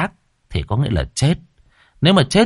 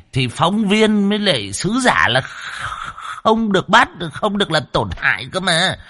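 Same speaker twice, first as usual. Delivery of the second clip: high-pitched, stammering protest; whining argument; 7 semitones higher than usual. A narrator's reading. Captive cameraman pleading his case to the demons, whining argument. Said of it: "Lão Thọt ngoạc mồm cãi".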